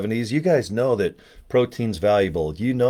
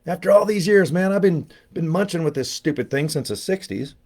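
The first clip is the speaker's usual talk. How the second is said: much higher, hammed-up old-timer gripe; mock grumble about an old tooth; exaggerated whine; 7 semitones higher than usual. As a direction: complain like a cranky old man.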